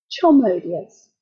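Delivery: Chomodius with a breathy H added before the vowel; aspirated h. Shown as a demonstration. Lecturer mocking a Roman's fake-Greek H, aspirated. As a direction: say Chomodius with an H puffed onto the start. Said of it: "Arius would say".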